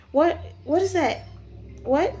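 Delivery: startled, rising disbelief; acted alarm. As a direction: react in confused shock to a strange sight. Character discovers someone hanging.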